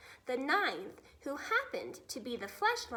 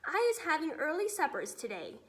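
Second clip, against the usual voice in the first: shouted; 3 semitones higher than usual. Acted. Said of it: "he shouted".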